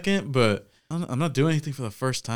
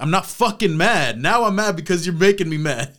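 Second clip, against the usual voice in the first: higher-pitched, exasperated retold protest; mock angry outburst; 6 semitones higher, 3 dB louder than usual. Retelling being asked why he's mad, exasperated mock anger. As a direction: act out finally losing your patience. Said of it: "he started fucking yelling at me".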